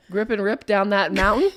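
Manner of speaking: laughing, hyped up; excited laughing. Real, not acted. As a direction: cheer it like a thrill-seeker. Excited about snowboarding downhill.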